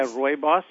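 rooibos said slowly as ROY-bos with a rise at the end; rooibos said carefully. Shown as a demonstration. South African guest teaching the host to say rooibos, ROY-bos. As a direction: show them how to say rooibos, ROY-bos. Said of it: "you say it like R O Y".

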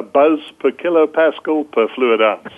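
slow, spaced out for someone writing it down; slowly. Real, not acted. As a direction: say it at dictation speed, word by word. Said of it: "Very slowly".

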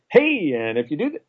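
light mock commercial voice; a hint of radio-ad delivery; imitated commercial announcer. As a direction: briefly imitate an ad pitchman. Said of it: "those guys doing commercials".

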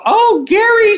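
very high, slow silly voice; mock nut job. Host mimics a nut job blaming Gary, high and goofy. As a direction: put on a high-pitched loony. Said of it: "nut jobs who will go".

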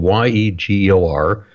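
letters Y E G O R spelled one by one; spelling it out. Shown as a demonstration. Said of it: "his first name is spelled".

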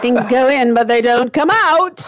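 high, laughing quip; laughing joke. Real, not acted. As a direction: tease it while laughing.

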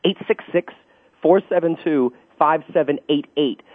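no voice, husky and hoarse; hoarse, worn-out voice; raspy whisper. Real, not acted. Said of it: "I guess 'cause I have no voice".

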